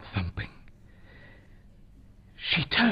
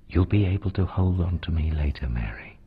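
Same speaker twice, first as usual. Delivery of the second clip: gently; 4 semitones lower, faster than usual. Acted. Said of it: "Jesus said gently".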